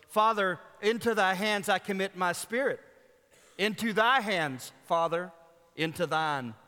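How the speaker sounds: devotional poem read aloud, building down to a near hush. Acted. Reads poem aloud in sermon.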